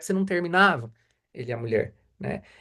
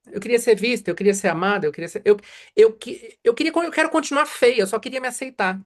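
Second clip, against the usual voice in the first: patient's wish; 5 semitones higher than usual. Retold or imitated. Voicing a patient's wishes.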